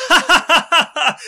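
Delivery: high, loud mocking cackle into the words; hammed-up laughing taunt. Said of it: "I would just be like".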